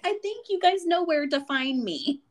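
mimicking the amused doctor through laughter; laughing retelling. Doctor jokes about her office location, retold through laughter.

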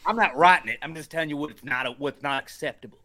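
put-on Southern accent; mock Southern objector. Playing Cletus objecting to the story, Southern accent. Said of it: "everybody's got a Southern accent".

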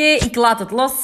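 slow, deliberate and drawn out; deciding out loud. Retold or imitated. Telling her listeners she drops it, said slowly. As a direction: announce letting go with a rising lilt. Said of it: "Dus, oké".

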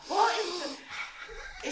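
slow, dazed, drawn-out searching; half-asleep confused mumble; hungover and groggy. Retold or imitated. Hungover morning, searching underwear.

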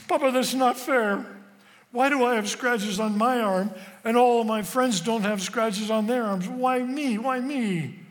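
put-on high, loud, tearful protest of a little boy; stammered child's plea. Boy begging his Papa to explain, high tearful protest. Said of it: "And I stammered".

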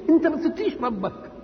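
high-pitched rebuking question; pointed reproach. Acted. Someone rebukes a man who wronged another, high-pitched reproach. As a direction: throw it at him as a pointed challenge. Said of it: "تعرض بواحد يكون ظلم حد".

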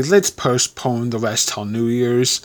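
desperate. Acted. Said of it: "said the Colonel desperately".

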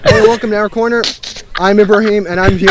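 a touch over-articulated podcast intro; enunciating voice. Shown as a demonstration. Host demonstrating his intro for friends, enunciating voice. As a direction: sound each word out like a presenter. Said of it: "this is my enunciating vo".

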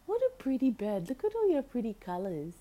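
high cooing praise for the parrot; cooing at the bird. Real, not acted. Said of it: "talking to the bird".

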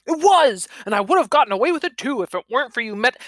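high, loud, rushed retort; heated insistence. Acted. Costumed culprit insisting on his guilt, heated retort. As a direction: fire back fast and indignant. Old man insists in quarrel.

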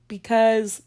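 slow, loud words pulled long by a yawn; yawning while talking. Real, not acted. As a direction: let the yawn take over the words. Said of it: "I'm sorry, y'all. I am just yawning".

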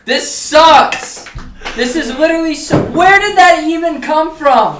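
high frustrated rant; panicking gamer. Real, not acted. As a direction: rage at the crumbling house. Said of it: "gamer rage at its finest".

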